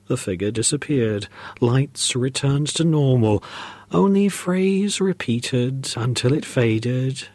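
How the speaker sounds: slow, measured storytelling; story narration. A narrator's reading. Podcaster closes the Christmas ghost story, slow narration. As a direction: wind the tale down slowly.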